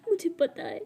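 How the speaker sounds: a mother sobbing over her failures; tearful plea. Acted. Mother to daughter, crying apologies. Mother cries begging forgiveness.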